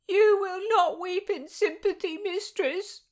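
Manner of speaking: high, loud, sharp retort in a maid's voice; lashing out. Acted. Maid lashes out at her mistress, high loud retort. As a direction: snap back at your mistress. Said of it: "hear Wynne lash out".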